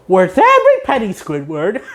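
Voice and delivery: proud SpongeBob. Retold or imitated.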